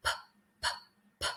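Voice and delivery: a crisp, aspirated "p", repeated; P sound demo. Shown as a demonstration. Teacher drilling the P sound for learners. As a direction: pop the "p" with a puff of air. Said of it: "try to make that sound a couple of times with me".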